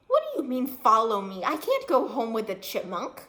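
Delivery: near yell. Acted. Girl protests to the chipmunk, nearly yelling. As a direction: push back almost yelling. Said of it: "she all but yelled".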